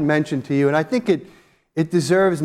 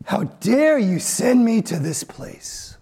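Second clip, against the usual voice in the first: defiant outrage; 6 semitones higher than usual. Retold or imitated. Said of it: "shaking their fist at God".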